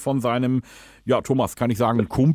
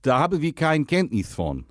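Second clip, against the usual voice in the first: put-on Dutch accent, lisping; 3 semitones higher than usual. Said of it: "rede, lispeln und Holländisch".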